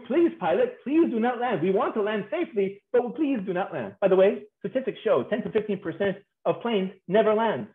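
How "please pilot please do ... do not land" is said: higher-pitched mock begging; pleading. Plane begging its pilot not to land, pleading. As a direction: beg lightly, in a raised voice. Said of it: "It begs you".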